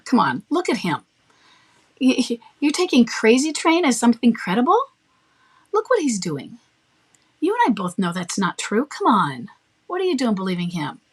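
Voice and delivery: mocking, laughable. Shown as a demonstration. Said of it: "I might make it laughable".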